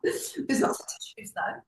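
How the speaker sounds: soft whisper, half-joking; whispered aside. Real, not acted. Aside while telling of crying.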